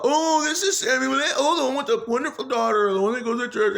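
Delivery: imitating Frank. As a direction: lightly parody Frank going on. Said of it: "that's all Frank would talk about".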